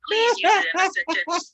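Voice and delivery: high, formal quiz-master voice; spelling bee judge. Pretend.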